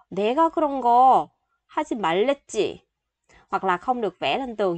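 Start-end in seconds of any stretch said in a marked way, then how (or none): 0.1-2.8 scolding parent. Retold or imitated. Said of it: "nói với thằng lớn nhà mình".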